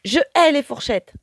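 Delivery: high, loud hateful cry; angry shout. A narrator's reading. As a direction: spit out your hatred. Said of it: "crie Carmelita".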